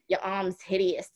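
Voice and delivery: lightly imitated New York grandmother; a touch of New York guilt-tripping bubby; New York accent.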